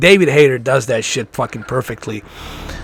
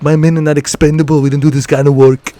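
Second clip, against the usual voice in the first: calmer, slower Arnold delivery; slow Arnold line; 4 dB louder than usual. Retold or imitated. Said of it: "sometimes in a slow tone of voice".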